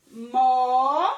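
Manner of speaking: Mo- held long and loud; loud, sustained Mo-, left hanging; first syllable held. Shown as a demonstration. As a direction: stretch out Mo- as a lone syllable. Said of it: "vamos lá?".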